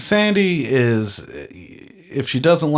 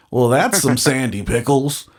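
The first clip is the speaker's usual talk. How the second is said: laughing through a folksy saying; laughing quote; 2 semitones higher than usual. Shown as a demonstration. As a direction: quote it while cracking up. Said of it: "that's the phrase he would say".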